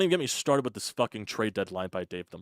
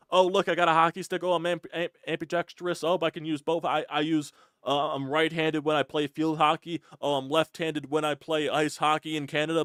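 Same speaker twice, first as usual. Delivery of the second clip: mocking chatter; 6 semitones higher than usual. Mocking a hockey player's chatter.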